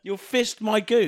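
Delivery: laughing. Real, not acted. Laughing in disbelief.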